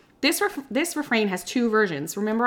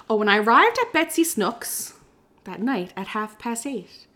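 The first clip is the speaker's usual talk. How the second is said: poem reading. Acted. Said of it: "reading this as a poem".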